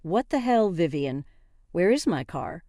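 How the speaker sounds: sharp, angry demand. Acted. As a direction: confront her, mildly angry. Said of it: "I angrily stopped her and said".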